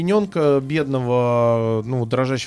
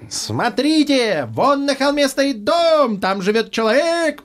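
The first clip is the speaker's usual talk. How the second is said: much higher, slow crowing rooster; crowing proud rooster; 10 semitones higher, slower than usual. Acted. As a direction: crow it out slowly like a rooster. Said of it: "прокукарекал петух".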